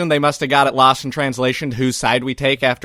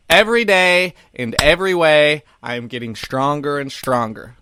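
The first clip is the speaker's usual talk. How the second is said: Tony Robbins affirmation. Shown as a demonstration. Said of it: "Tony Robbins bug".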